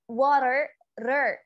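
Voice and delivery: American "Water" with tapped R; American English. Shown as a demonstration. Teacher drills the ending, American tapped R. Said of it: "But in American".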